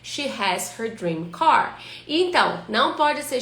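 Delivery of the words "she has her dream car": slow model sentence. Shown as a demonstration. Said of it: "em inglês é".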